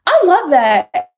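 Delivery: high, loud excited gush; delighted. Real, not acted. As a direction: burst out loudly, drawing it out. Delighted reaction to viewer's comparison.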